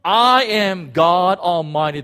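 a loud, commanding voice of God; God declaring. Acted. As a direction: call out his name like God himself. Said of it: "and he says".

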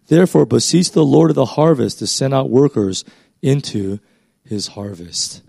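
measured read-aloud of a Bible passage; scripture reading. A narrator's reading. Preacher reads the Gospel passage to listeners, scripture reading. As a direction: read the verses evenly, phrase by phrase.

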